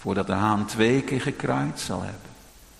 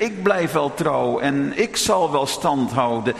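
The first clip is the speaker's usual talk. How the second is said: boastful; 3 semitones higher than usual. Retold or imitated. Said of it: "Geen grote woorden spreken".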